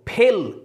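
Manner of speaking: "ফেল" slowly as one drawn-out syllable; one long, separate beat on "ফেল"; syllable counting. Shown as a demonstration. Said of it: "এবার syllable গুনো".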